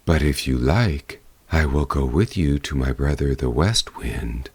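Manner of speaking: a hint of a low, gentle wind spirit; east wind.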